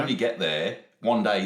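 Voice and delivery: normal talking voice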